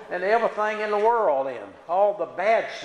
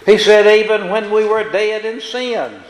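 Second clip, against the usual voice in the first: preaching scripture; 3 semitones higher, 9 dB louder than usual. Acted. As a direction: proclaim the verse to the congregation. Preaches verse loudly.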